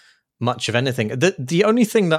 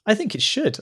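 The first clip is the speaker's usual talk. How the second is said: laughing; 10 semitones higher than usual. Real, not acted. Laughing at own hopeful claim.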